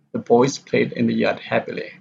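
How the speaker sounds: "boys" and "played" weighted, "happily" falling; stress on boys, played. Shown as a demonstration. Teacher shows sentence stresses, on "boys" and "played". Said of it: "the stress on boys and played".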